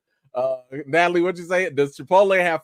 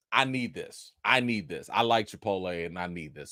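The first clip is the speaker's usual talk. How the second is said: softer, lower heartfelt need; low pleading; 13 semitones lower, 8 dB quieter than usual. Real, not acted. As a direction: say it like a plea. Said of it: "I'm just excited".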